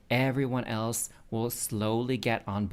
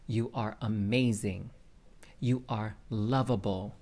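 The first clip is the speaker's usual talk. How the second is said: affirmations. Shown as a demonstration. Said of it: "you need to say it out loud".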